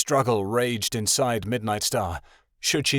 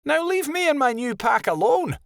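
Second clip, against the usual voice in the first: put-on higher, mildly harsh young wolf; higher, mildly harsh rebuttal. A narrator's reading. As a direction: say it harshly, dismissive.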